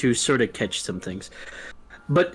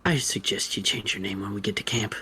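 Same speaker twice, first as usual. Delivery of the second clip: grim warning; 5 semitones lower, 6 dB quieter than usual. Acted. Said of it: "and goes".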